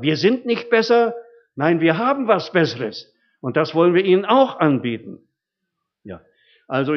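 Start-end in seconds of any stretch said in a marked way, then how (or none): 0.0-5.2 emphatic. Real, not acted. Sermon climax.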